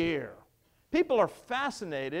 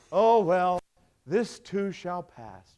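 mock platitude; 7 dB louder, much slower than usual. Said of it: "what do we say".

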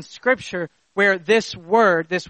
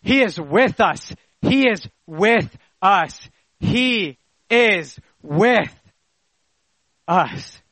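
each repeat slower, ending word by word; emphatic slowing repetition; slower than usual. Real, not acted. Preacher assuring church of God's presence, slowing emphatically. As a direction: stretch it out, long pause before the last word.

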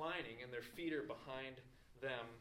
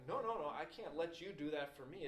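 higher, acted refusal; emphatic polite protest; 4 semitones higher, 4 dB louder than usual. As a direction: wave the help away insistently. Acts out proud refusal of help.

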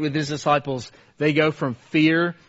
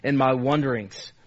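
Christian preaching to self. Acted. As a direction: read the psalm as your own prayer, slowing into hope. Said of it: "He talks like this".

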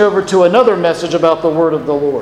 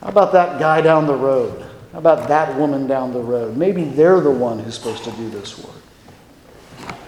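soft, reluctant suggestion, sinking lower; self-doubting deflection; 4 semitones lower, 3 dB quieter than usual. Acted. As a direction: quietly pass the job on to someone else. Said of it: "and you say".

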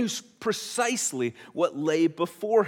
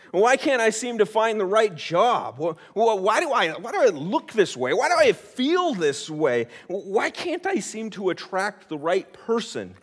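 louder, exasperated demands to heaven; crying out to God; 3 semitones higher, 6 dB louder than usual. Acted. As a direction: arms up, demanding answers from God. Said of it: "thrown our arms up to heaven".

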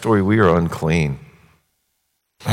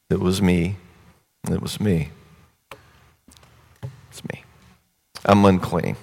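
woman confessing. Retold or imitated. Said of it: "She says".

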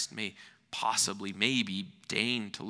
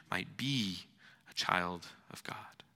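whispered; 3 semitones lower, 3 dB quieter than usual. Acted. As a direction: let it fall to a whisper. Hushed turn in sermon.

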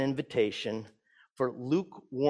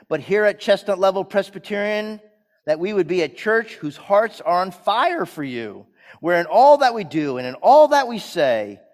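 earnest, projected congregational prayer; pleading prayer with strong emphasis; public prayer; 3 semitones higher, 6 dB louder than usual. Real, not acted. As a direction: lead the church in prayer, voice lifted.

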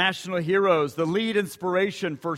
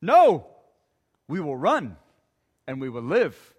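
soldier's scared shout. Acted. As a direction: shout it, then back off. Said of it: "cries out and says".

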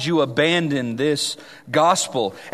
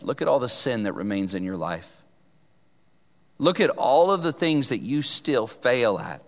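accusing Satan; 6 semitones lower, 4 dB quieter than usual. Acted. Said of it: "Satan would love to ... tell us".

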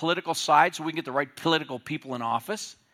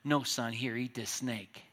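hushed retold dad; 3 semitones lower, 6 dB quieter than usual. Dad voiced in a story.

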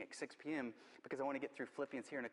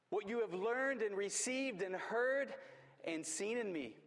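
slow emphatic reading; 4 semitones higher, slower than usual. Acted. Reads verse slowly, emphatically.

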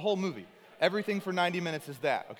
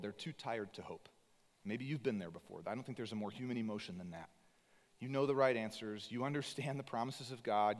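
much softer, low sympathetic preaching; tender empathy; 4 semitones lower, 6 dB quieter than usual. Real, not acted. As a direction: lean in gently to tired listeners.

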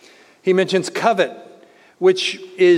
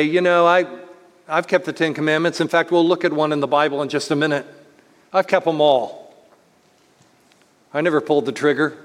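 quick, offhand mock boast of keeping every rule; cavalier boast; faster than usual. Preacher mimics a smug believer, quick and offhand. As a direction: rattle it off like a smug churchgoer. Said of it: "Someone may cavalierly say".

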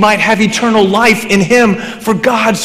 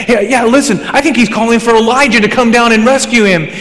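higher, eager onlooker imitation; excited bystander; 6 semitones higher than usual. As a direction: mimic someone urging others to listen. Acting out bystanders at the cross.

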